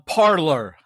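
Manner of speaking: PARLER attempted with a Russian accent. Host struggling with the app's name, Russian accent. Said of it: "say it with a Russian accent".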